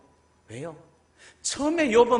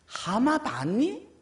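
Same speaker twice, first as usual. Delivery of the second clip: louder, mocking rhetorical questions; God's challenge; 6 semitones higher, 6 dB louder than usual. God challenging Job with questions, loud and taunting. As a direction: taunt him with each question. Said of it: "하나님 무슨 말씀하세요".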